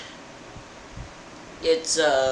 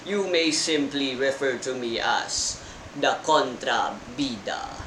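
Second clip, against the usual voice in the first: villain boss voice; 2 semitones higher than usual. Acted. Villain boss old man speech.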